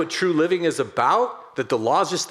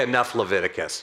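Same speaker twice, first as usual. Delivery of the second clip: laughing; 4 semitones lower than usual. Real, not acted. Complaint to God, amused.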